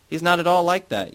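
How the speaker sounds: slurred tipsy outburst; drunken objection. A narrator's reading. Yara defending Yarostan to her mother, drunk and loud. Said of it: "Yara objects drunkenly".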